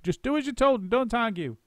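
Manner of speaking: high bossy monkey shout. A narrator's reading. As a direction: cut off the argument. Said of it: "shouted Mugglewump".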